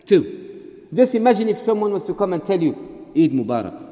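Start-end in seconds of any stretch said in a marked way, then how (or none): 3.2-3.8 loud, hearty, low-pitched greeting; full-voiced festive greeting; welcome Eid greeting. Shown as a demonstration. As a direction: wish it wholeheartedly. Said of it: "You love it".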